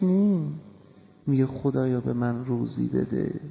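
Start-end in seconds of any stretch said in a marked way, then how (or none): 1.5-3.4 low, soft imitation of a worshipper's prayer; quiet, low mock supplication; thickened praying voice. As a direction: pray in a lightly thickened, lowered voice. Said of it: "به اون مقدار دیگه صداش کلوف هست".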